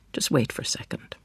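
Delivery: hushed unvoiced whisper. Daughter whispering to her father outside the door.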